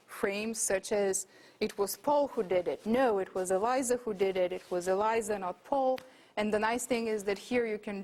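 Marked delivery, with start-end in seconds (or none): 1.6-2.8 emphatic accent on "Paul"; stress on Paul. Shown as a demonstration. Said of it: "all of these names are marked as emphatic". 2.8-6.0 emphatic accent on each "Eliza" and on "Paul"; stress on the names. Shown as a demonstration. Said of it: "all of these names are marked as emphatic".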